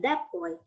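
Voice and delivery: put-on "that" said as thap before boy; assimilated t to p. Shown as a demonstration. Teacher demonstrating place assimilation, "that" ending in p. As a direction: close the lips for the t of "that", making p. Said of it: "berubah menjadi peh".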